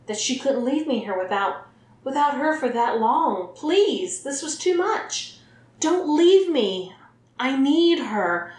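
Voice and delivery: rising to a desperate loud plea. A narrator's reading. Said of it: "blurting in a louder tone".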